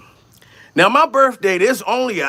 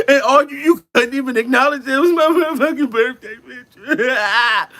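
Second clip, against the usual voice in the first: crying; 5 semitones higher than usual. Retold or imitated. Crying at girlfriend over his ignored birthday, mock sobbing. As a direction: sob out the complaint. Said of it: "So I'm crying and shit".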